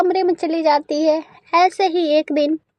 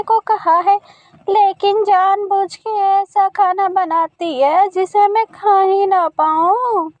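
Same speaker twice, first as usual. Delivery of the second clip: gossiping auntie; 3 semitones higher than usual. Acted. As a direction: whine about the bahu. (गपशप करती चाची)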